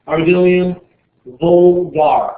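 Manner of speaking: loud Latin pronunciation, word by word; put-on Latin accent. Shown as a demonstration. Teacher showing a scientific name, Latin accent. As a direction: proclaim it in mock Latin. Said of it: "That's my Latin".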